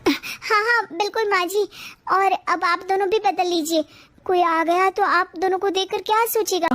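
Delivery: high, quick eager agreement; eager young wife. Acted. Daughter-in-law agreeing to swap back, eager and high. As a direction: rush to agree, relieved.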